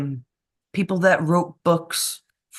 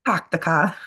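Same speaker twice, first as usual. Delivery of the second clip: Boston accent. Shown as a demonstration. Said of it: "Kennedy. Boston".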